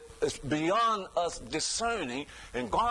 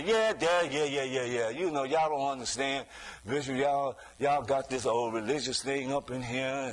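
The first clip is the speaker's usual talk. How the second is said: mocking; 4 semitones lower than usual. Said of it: "You keep mocking it with your dad".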